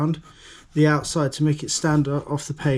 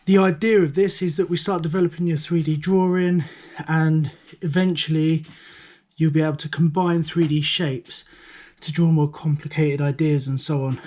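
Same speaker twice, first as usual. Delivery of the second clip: slightly breathless after running upstairs; out of breath. Real, not acted. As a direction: talk while catching your breath. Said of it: "I'm a little bit out of breath".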